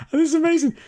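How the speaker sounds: high, delighted squeal; excited. Real, not acted. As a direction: gush about it. Delighted at the show.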